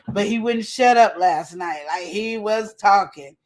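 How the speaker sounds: slow, drawn-out mimicry of her nephew; imitating his talk. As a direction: stretch the words like he rambled. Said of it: "You see how I'm talking like that?".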